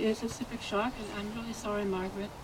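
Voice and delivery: softly spoken, heartfelt sympathy; sincere condolence. Real, not acted. Speaker consoles Margaret over her loss, softly sincere. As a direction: drop to a soft, tender condolence. Condolences to grieving friend at memorial.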